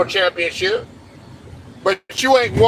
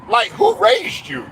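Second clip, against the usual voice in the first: much higher, slow, disbelieving who raised you; incredulous; 11 semitones higher than usual. Real, not acted. Ranting at a whining player, high and slow in disbelief. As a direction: stretch it out in pure disbelief.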